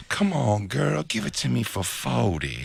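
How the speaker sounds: slow, drawn-out cartoonish coaxing; lazy, wheedling cartoon-cat delivery; Snagglepuss. Comic imitating a john haggling with a woman, Snagglepuss voice. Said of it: "like, a snagglepuss voice".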